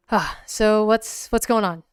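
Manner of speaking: pressing question. Acted. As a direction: push him to spill the story. Asks, then repeats more quietly.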